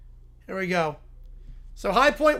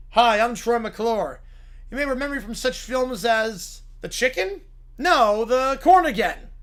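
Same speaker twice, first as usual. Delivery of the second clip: Troy McClure voice; 2 semitones higher than usual. Acted.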